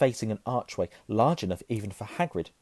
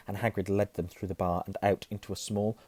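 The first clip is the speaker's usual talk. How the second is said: usual speaking voice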